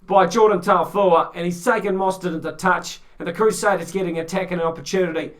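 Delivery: lively sports commentator call; play-by-play commentary. Acted. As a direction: call the rugby action live. Live rugby play-by-play.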